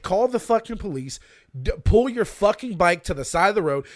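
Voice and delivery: loud, exasperated yelling at a driver; imagined road rage. Retold or imitated. Stuck behind a billboard truck, yelling angrily. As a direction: yell at the guy blocking traffic. Imagined honking at stalled traffic.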